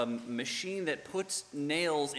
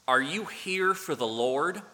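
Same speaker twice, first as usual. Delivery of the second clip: put-on Southern accent; 5 dB louder than usual. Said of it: "this thick Southern accent".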